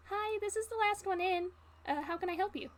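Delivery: a hint of a friendly front-desk clerk; cheerful innkeeper answering the phone; innkeeper cameo. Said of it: "an N P C cameo".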